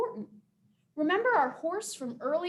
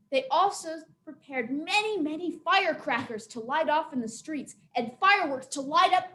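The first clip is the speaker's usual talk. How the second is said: story narration; 2 semitones higher, 4 dB louder than usual. A narrator's reading. Teacher telling the Nian legend to listeners, animated storytelling. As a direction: tell it like a legend, leaning on vivid words.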